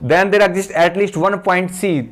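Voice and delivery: very slow, word by word, for note-taking; slow dictating teacher; slow dictation. Shown as a demonstration. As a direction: read it out slowly while students write. Dictating theorem for notes.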